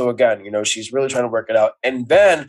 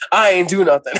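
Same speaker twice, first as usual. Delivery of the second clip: back in character; 5 semitones higher than usual. Retold or imitated. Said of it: "going back to character".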